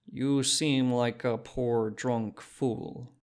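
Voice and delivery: put-on slow, skeptical Czech-accented question; doubtful shopkeeper in a Czech accent; dense Czech accent. Shopkeeper doubting the drunk, slow Czech accent. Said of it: "she said".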